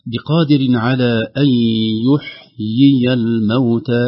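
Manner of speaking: يحيي الموتى with the first yaa kasra and the second with fatha, slow; two yaas demo. Shown as a demonstration. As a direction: pronounce يحيي slowly, separating both yaas. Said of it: "لو نلاحظ في النطق قلنا يحيي الموتى". (تلاوة بطيئة تظهر الياءين في يحيي)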